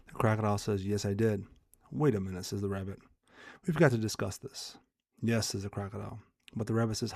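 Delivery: measured, lightly animated story reading; storyteller with a touch of drama; parable read aloud. Acted. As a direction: read a fable aloud with lightly voiced dialogue.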